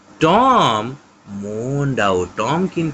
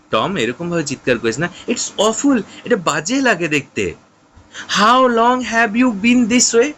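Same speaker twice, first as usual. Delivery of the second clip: frightened; 9 semitones higher, slower than usual. Acted. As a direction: beg him to stop groaning. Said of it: "সিড বলছে".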